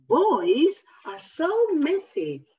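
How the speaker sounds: mock disapproving waitress; exasperated waitress. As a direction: tut at the mess. Repeats the waitress line.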